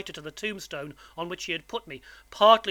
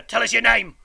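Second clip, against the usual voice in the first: loud, raised, threatening demand; menacing convict; 5 semitones higher, 9 dB louder than usual. A narrator's reading. Convict questions boy in churchyard, menacing. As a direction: order the frightened child to answer.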